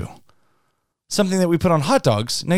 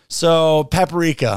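put-on Italian accent; much slower than usual. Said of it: "I can say it with an accent".

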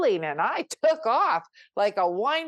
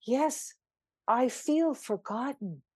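dawning recognition; 4 semitones higher than usual. Retold or imitated. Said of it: "And I went".

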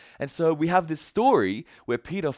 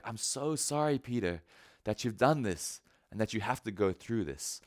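softer, lower, tender apology; pained compassion; 4 semitones lower, 5 dB quieter than usual. Acted. Jesus looking at Peter after the denial, sorrowful and tender. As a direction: speak gently, sorry for his pain. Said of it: "eyes of pain, like".

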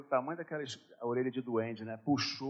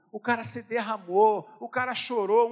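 usual speaking voice

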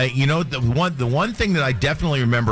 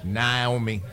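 laughing; 4 semitones lower, 4 dB quieter than usual. Real, not acted. Laughing echo of name.

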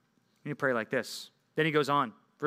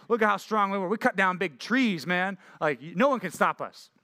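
slightly raised, boastful mock voice; mock bragging; 4 semitones higher than usual. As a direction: imitate men boasting of their strength. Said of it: "These guys are bragging".

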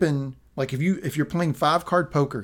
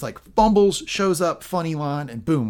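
higher and louder, mocking the clumsy entrance; mock fumble; 5 semitones higher, 4 dB louder than usual. Host mocking Penance's clumsy joke, higher and louder. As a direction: send up her fumbling.

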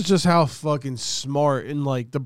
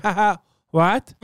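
high, startled laugh of disbelief; shocked laughter; 7 semitones higher than usual. Retold or imitated. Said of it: "his face is like".

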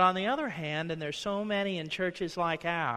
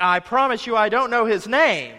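Peter's denial; 5 semitones higher, 10 dB louder than usual. Retold or imitated. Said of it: "They're like".

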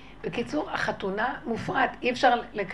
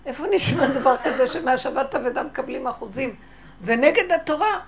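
acted indignant protest; 5 dB louder than usual. Crowd objecting to the finder's demand, indignant protest. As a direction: object loudly, building to the last words.

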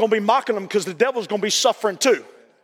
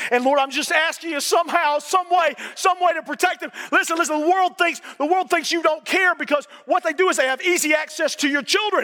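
high, pleading pulpit voice; impassioned preaching; 5 semitones higher than usual. Real, not acted. Preacher praying protection over a grandbaby, then warning parents, fervent preaching. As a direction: plead and warn with mounting urgency.

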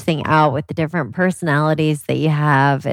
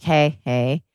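gentle calming; 2 semitones lower than usual. Retold or imitated. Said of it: "Oh, like".

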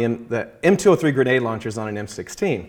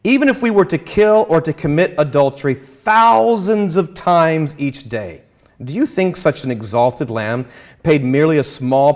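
slightly raised, emphatic reading of Luther; quoting Luther. Retold or imitated. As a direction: read the letter with mild force. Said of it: "he says".

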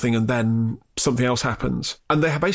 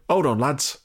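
put-on accidental Durham accent. Podcaster quoting the film's last line, in a wobbly Durham accent. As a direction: try a Michael Caine quote that drifts to Durham. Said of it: "He's now from Durham, I don't know why".

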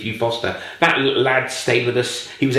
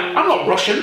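put-on Eastern European accent; 13 semitones higher than usual. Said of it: "he did have an Eastern European tang".

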